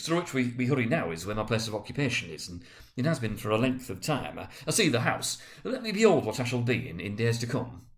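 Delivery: put-on uneasy old miser pressing the ghost; a hint of anxious Scrooge. Scrooge at his office court.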